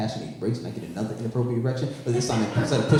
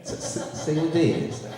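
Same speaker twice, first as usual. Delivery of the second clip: laughing taunt; 5 semitones higher, 4 dB quieter than usual. Retold or imitated. To a random white guy, a taunt cracking into laughter. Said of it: "just like".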